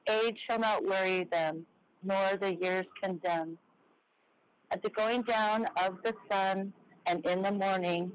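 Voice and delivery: slow, measured memorial verse; solemn recitation. Real, not acted. Honoring the dead at the show's close, solemn recitation. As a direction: recite it slowly, phrase by phrase.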